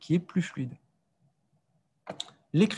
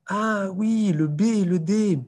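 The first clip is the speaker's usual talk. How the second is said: high, drawn-out "aha" of a pupil; imitated delighted discovery, higher-pitched; pupil's sudden realisation; 6 semitones higher, 4 dB louder, slower than usual. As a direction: play a child who suddenly gets it. Acts pupil spotting the mix-up.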